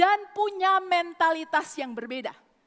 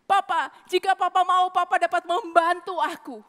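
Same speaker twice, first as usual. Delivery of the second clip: louder, insistent repeated prayer to Papa; fervent prayer; 3 dB louder than usual. Acted. Preacher leading the church in fervent prayer to God, insistent. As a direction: pray it out with rising fervour.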